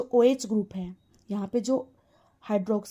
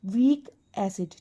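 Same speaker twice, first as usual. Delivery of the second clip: slow answer; 2 semitones lower, slower than usual. Shown as a demonstration. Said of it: "ये दोनों कैसे हुए?".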